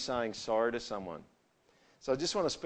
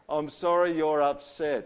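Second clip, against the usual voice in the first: grudging apology; 3 semitones higher, 5 dB louder, slower than usual. Retold or imitated. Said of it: "What about this one?".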